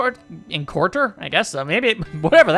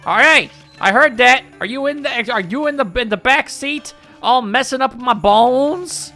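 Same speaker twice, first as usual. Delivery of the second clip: Madam Fawn; 4 semitones higher, 3 dB louder than usual. Acted. Fortune teller scolds player.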